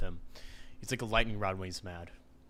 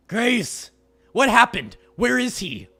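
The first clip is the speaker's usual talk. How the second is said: much higher and louder, urgent; alarmed demand; 11 semitones higher, 13 dB louder, much slower than usual. Acted. Reese demands to know where Graves is, alarmed. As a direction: demand answers, frightened.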